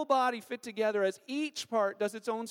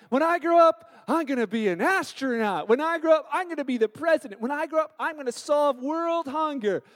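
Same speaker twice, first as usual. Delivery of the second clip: put-on higher, louder, excited child dreaming big; eager kid; 3 semitones higher, 4 dB louder than usual. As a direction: play a kid boasting about the future. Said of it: "kids have great intentions of growing up".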